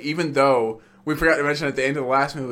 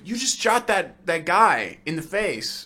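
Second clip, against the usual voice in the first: lightly voiced M, slow and pointed; mock stern boss; slower than usual. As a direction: drag it out like a disappointed boss. M scolding Bond, slowed voice.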